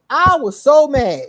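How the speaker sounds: laughing while saying how mad she was. Real, not acted. Telling friends about the fight, laughing. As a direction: laugh through it, loud.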